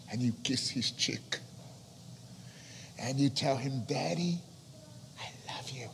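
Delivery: gentle, intimate murmur; tender whisper. Acted. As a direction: hush it like a child on a lap. Child whispering love to father.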